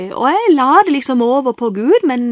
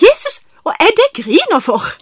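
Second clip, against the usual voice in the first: tearful plea; 7 semitones higher, 6 dB louder than usual. Retold or imitated. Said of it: "Og så sier jeg".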